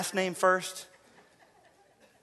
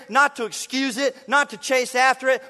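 usual speaking voice

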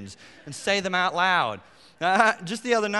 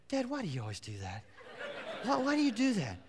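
laughing exasperated daughter, softer; 2 semitones higher, 10 dB quieter, faster than usual. Retold or imitated. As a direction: laugh through a fond complaint. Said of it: "Lauren looked at me and said".

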